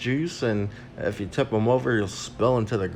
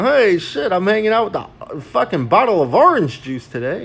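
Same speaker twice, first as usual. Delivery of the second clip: thrilled, higher and louder; excited; 6 semitones higher, 4 dB louder than usual. Retold or imitated. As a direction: gush about the fun. Imagined excited thought, quoted.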